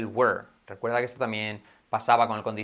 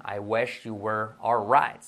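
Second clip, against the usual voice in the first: very slow, drawn-out English example; slow model sentence; 3 semitones lower, much slower than usual. Shown as a demonstration. Teacher models English example for learners, slowly. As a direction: spell out each word unhurriedly.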